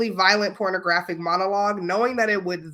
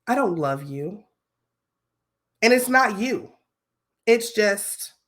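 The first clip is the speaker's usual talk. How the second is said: acting voice; 3 semitones higher, slower than usual. Shown as a demonstration. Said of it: "I'm gonna put my acting voice on".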